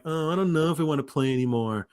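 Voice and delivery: a light mock whine, timbre shifted; mock whining. Mocking the player who whines about quitting, in a light whine. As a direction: imitate her whining lazily. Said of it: "such whining".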